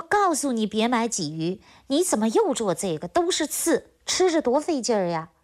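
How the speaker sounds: put-on grumpy old man snapping at his wife about the fish; mock shout at his wife. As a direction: scold the wife half-shouting over the fish. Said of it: "冲着老伴儿就喊".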